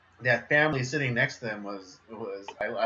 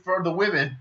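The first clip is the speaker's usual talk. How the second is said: light mock Eastern European accent, higher; 6 semitones higher than usual. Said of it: "Eastern European accent".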